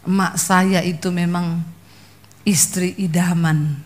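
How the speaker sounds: quiet aside trailing into a whisper; soft, offhand remark ending in a whisper. Retold or imitated. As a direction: murmur it gently, no shouting. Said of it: "Dia nyeletuknya halus sih, ndak, ndak teriak-teriak".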